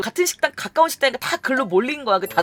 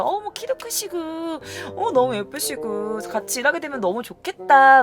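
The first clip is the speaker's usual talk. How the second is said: flattering upline woman; 3 semitones higher than usual. Retold or imitated. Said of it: "막 이러면서".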